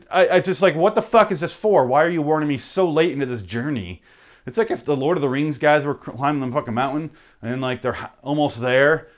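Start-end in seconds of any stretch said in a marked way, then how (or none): 0.8-4.0 exasperated complaint. Retold or imitated. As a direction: protest the late warning. Exasperated at late warning.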